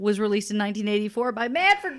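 big hyped announcer read; hyped announcement. Pretend. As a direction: sell it like a grand reveal. Announcing the running band-name bit.

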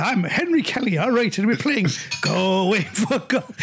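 slow, game-show host patter; quiz host impression. Teasing Hans Zimmer, slow mock quiz host announcing. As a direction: play the cheesy host. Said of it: "I goes, I said".

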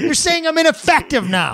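high-pitched mock outrage; hammed-up wounded protest; indignant neutered dog. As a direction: play an affronted dog, voice way up. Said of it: "if a neutered dog could talk".

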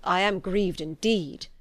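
plain reading voice

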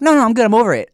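mock breezy ex. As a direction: move on cheerfully as if nothing happened. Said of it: "She's like".

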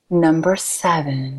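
slow, drawn-out number announcement; lightly put-on announcer voice, taken slowly; Numbers Girl. Shown as a demonstration. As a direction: announce it slowly, stretching both words. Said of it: "doing my best Numbers Girl impression".

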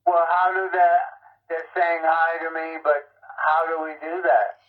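tinny phone speaker voice; on speakerphone. Real, not acted. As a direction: voice coming through a phone. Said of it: "you're on speakerphone on my landline".

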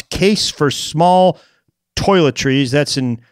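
normal talking voice

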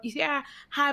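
high voice. Retold or imitated. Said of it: "my voice was".

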